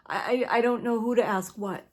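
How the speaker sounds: laughing helplessly through the words; a real laugh while admitting confusion. Real, not acted. Laughing at her own confusion.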